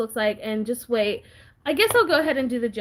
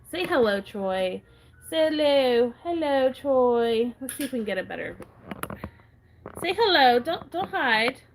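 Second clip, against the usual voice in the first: talking to a pet; 3 semitones higher than usual. Real, not acted. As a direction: sweetly coax the cat to say hello. Coaxing the cat to greet.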